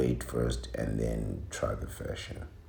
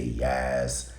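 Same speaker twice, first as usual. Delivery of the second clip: "Yes" in a mock New York accent. Scolding New York women, imitating their New York accent. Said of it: "and you say".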